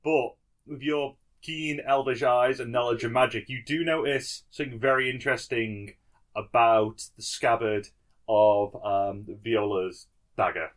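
low, measured scene-setting; game master narration. Acted. GM sets the scene.

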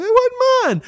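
put-on very high, slow childish whine; whiny kid protest. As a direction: plead your innocence like a little kid. Kid protesting to his mom.

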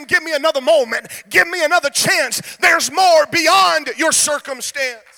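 loud climactic preaching, the last line slowed and shouted. Acted. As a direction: call it out as the potter's promise. Potter's call, sermon climax.

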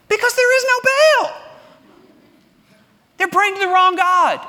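high, loud ringing declaration; preaching shout. Real, not acted. Pastor declares to congregation, loud preaching cry. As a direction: proclaim it to the back row.

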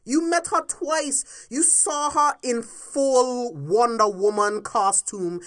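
furious podcast rant. Real, not acted. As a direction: hammer each word in disbelief. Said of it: "this is why I'm ranting".

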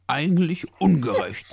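high, loud dog-like wail; howling complaint. A narrator's reading. Hungry dog protesting unfair food rules, wailing. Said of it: "heulte Leo".

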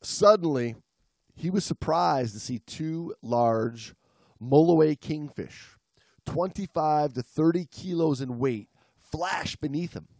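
measured storytelling read; story narration. A narrator's reading. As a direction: read the story slowly to the listeners. Reads the story aloud.

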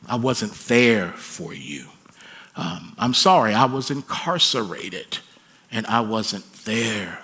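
a father owning his failures, in a subdued voice; fatherly apology. Acted. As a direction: say sorry low and earnestly. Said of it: "if our children heard us say these things".

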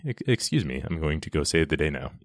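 mildly kind, courteous brush-off; kindly. Retold or imitated. Superman excusing himself to go save the day, mildly kindly. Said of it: "he just says kindly".

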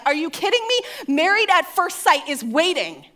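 high-pitched incredulous protest; mock indignation. Wife outraged her show must wait, mock indignation. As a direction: protest the interruption, pitch jumping up.

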